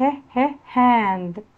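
"ه، ه" as short beats, then "هاند"; phonics drill. Shown as a demonstration. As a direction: sound out H twice before "هاند". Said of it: "هنوصل كلمات حرف ال H". (تدريب صوتي: "ه، ه" منفصلة ثم "هاند")

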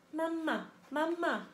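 little gosling peeping for its mama. A narrator's reading. Gosling insists the robot is its mama, peeping high. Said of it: "peeped the gosling".

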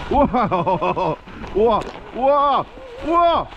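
rising thrilled wow; excited wow. Real, not acted. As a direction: let the wow build up. Amazed on the run. (점점 신나는 감탄)

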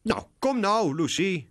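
high, loud chipper urging; cheerful call. A narrator's reading. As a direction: call her along brightly. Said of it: "roept Charlie opgewekt". (opgewekt roepen, hoog en luid)

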